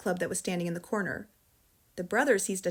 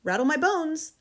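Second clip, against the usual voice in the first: spooky parrot; 7 semitones higher, 4 dB louder than usual. Acted. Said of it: "imitation of a spooky voice".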